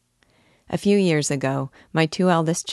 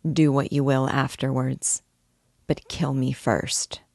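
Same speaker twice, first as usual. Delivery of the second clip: grave, submissive. Acted. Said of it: "in grave, submissive tones".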